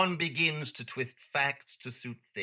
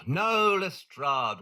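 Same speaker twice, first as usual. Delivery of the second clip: exasperated; 4 semitones higher, 4 dB louder, much slower than usual. Acted. Holmes exasperated by Lestrade's joke.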